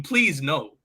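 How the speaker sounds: laughing through a mock plea. Real, not acted. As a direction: beg while cracking up. Begging comparison not be true.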